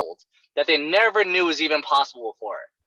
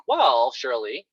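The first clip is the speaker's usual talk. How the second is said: slow coaching opener; 3 semitones lower, much slower than usual. Shown as a demonstration. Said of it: "use words like this".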